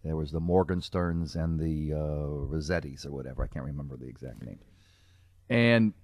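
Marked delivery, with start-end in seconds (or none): 5.5-5.9 higher-pitched New York mobster accent; hammed-up New York gangster talk. Shown as a demonstration. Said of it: "talking like this".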